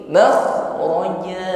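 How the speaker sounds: "makhraja" ending on a held open a, no n; slow "makhraja" with the final vowel held; one-alif ending. Shown as a demonstration. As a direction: lengthen the last a of "makhraja" moderately. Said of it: "Panjangnya cukup satu alif saja".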